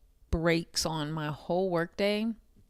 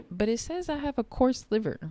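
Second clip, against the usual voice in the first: exasperated protest; 7 semitones higher, 3 dB louder, faster than usual. Real, not acted. Outraged at doctor's claim.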